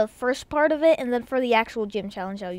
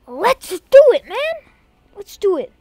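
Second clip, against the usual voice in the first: high, loud rallying shout; fired-up gamer yell; excited hype; 9 semitones higher, 11 dB louder than usual. Real, not acted. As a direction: burst out cheering, then echo it a bit less loudly. Hyping up before the next challenge.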